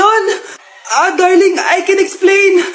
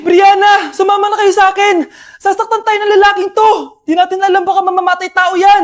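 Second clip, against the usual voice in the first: urgent calling. Acted. Urging family to flee.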